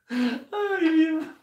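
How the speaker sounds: hoch und strahlend, überschwänglich; begrüß die Zuschauer mit hoher, freudiger Stimme; freudige Begrüßung. Real, not acted. Greeting the viewers. (begeisterter Gruß an die Zuschauer, hoch und laut)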